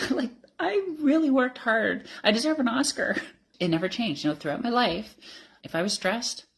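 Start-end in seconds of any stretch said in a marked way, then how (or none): 0.1-3.1 joking through laughter. Real, not acted. Joking about own macho act.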